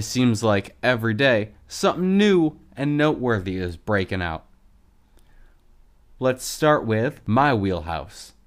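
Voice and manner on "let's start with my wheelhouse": lisp. Real, not acted. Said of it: "I apologize for the lisp".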